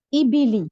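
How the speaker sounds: "इबिली" with a long, clear "ई"; long ee sound. Shown as a demonstration. Teacher to class, demonstrating the long ee. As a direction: stretch the "ई" in "इबिली". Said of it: "ई की आवाज निकलती है".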